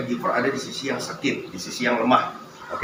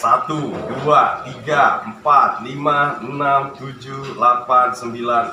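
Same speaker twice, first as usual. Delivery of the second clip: counting workout reps; 4 dB louder, much slower than usual. Real, not acted. Counting reps during exercise.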